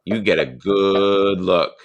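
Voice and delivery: slow, savoured grandfatherly warning; drawn-out warning. Retold or imitated. Grandfather warning his teenage grandson, drawn out. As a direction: stretch out GOOD with relish.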